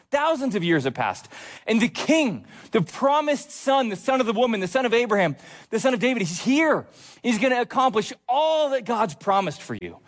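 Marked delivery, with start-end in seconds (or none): 1.7-10.0 high-pitched, mounting list of titles; fervent proclamation. Real, not acted. Preacher announcing the promised king to the congregation, fervent and high. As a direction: herald the long-promised arrival.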